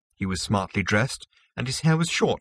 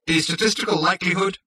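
high, precise machine voice; prim autopilot; 10 semitones higher, 3 dB louder than usual. A narrator's reading. Autopilot lectures Zaphod on the odds, prim machine voice. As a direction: recite it primly, pitched well up. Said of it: "continued the autopilot primly".

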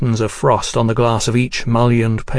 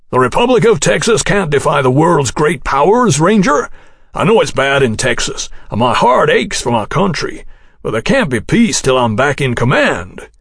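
put-on grand old general; 4 semitones higher than usual. Houston pleads his case.

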